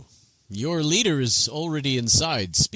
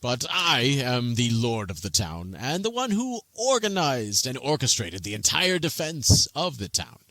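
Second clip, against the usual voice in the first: pompous interruption; 2 semitones higher than usual. Acted. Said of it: "Bakaris interrupts at that moment and says".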